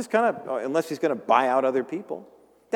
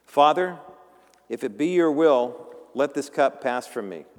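earnest prayer; 4 dB louder than usual. Acted. Jesus' prayer in Gethsemane.

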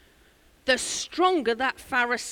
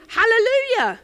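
ecstatic shout, much higher and louder; 11 semitones higher, 8 dB louder than usual. Retold or imitated. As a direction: shout it out with joy like a revival cry. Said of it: "he shouted out in Cornish fashion".

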